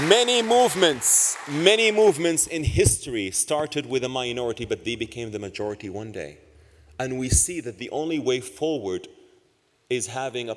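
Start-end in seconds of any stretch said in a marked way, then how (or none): 0.1-4.6 emphatic. Real, not acted. Rallying speech, building emphasis.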